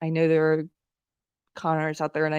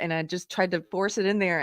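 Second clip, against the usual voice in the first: usual speaking voice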